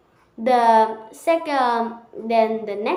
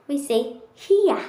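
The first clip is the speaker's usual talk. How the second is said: British accent; 3 semitones higher than usual. Shown as a demonstration. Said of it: "In British English".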